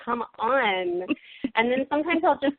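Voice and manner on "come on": mock daughter yelling "speak English" slowly; hint of a fed-up kid; whiny daughter. Mother imitates her daughter refusing Italian, mock whiny yell. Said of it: "She's like".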